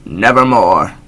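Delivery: slow, loud, strange-timbred croak; one dark word from the bird; raven's croak. Acted. Raven answering the narrator, slow ominous croak. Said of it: "Quoth the raven".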